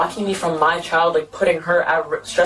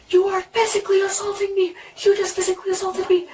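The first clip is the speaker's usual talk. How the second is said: mock scream; 13 semitones higher than usual. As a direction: imitate ex screaming in a high voice. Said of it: "he's screaming in my face".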